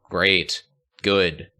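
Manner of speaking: slow, lifeless announcer voice; boring announcer. Retold or imitated. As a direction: read the callouts with zero emotion. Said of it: "the most boring thing possible".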